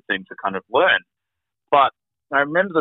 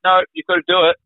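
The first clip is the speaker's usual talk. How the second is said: firm insistence; 9 semitones higher, 5 dB louder, faster than usual. Retold or imitated. Staff's retold insistence.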